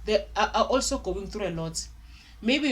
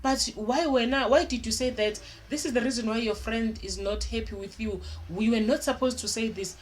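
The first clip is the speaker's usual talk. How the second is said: scolding parent; 2 semitones higher than usual. Retold or imitated. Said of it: "You're not gonna go straight to say".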